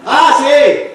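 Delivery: high, cheerful clueless friend; helpful and totally off; friend shouting. Retold or imitated. The friend offers internet advice, high-pitched and cheerful.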